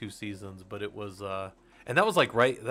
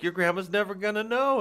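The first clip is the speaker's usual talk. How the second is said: menacing Wayne Brady; 10 semitones higher, 5 dB louder than usual. Retold or imitated. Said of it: "and he's like".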